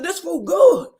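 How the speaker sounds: acted food defense. Nell defending her eating to the table, mock exclaiming. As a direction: blurt it out, mimicking a happy eater.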